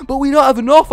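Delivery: laughing through the words. Real, not acted. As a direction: giggle while you say it. Laughs at missing North Africa.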